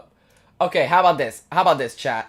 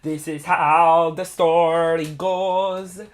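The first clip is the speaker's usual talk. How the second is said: put-on Italian accent. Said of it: "We need more Italian accent".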